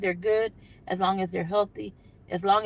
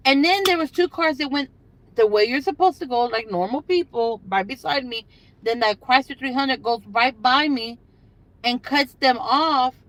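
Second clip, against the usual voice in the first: loud, higher, worked-up recount; indignant retelling; 3 semitones higher, 4 dB louder than usual. Real, not acted. Telling viewers about a reckless driver, loud and indignant. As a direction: tell it like you can't believe it. Recounting car cutting off traffic.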